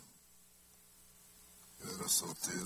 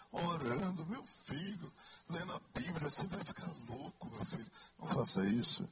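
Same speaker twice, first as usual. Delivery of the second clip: higher, pleading mother voice; fretting mother; 9 semitones higher than usual. Retold or imitated. Son mimicking his mother scolding him for praying, higher pleading voice. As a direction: plead like a worried mum. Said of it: "Eu digo".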